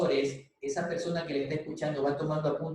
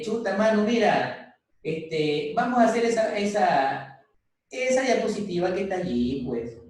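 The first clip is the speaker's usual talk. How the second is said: casual street talk; 3 semitones higher than usual. Shown as a demonstration. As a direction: talk to the slides like a buddy from the barrio. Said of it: "Como que yo dijera".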